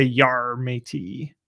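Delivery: pirate voice. Acted. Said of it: "should I do a pirate voice".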